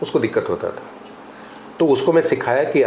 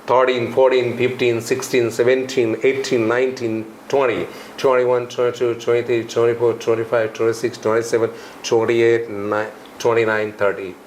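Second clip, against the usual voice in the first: American accent demo. Shown as a demonstration. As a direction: run of numbers in an imitated American accent. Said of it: "कैसे बोलना है उसको American accent में". (American accent में गिनती)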